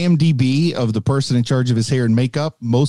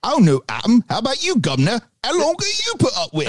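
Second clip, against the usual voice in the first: put-on Appalachian accent; 8 semitones higher than usual. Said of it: "back to the Appalachian coming out".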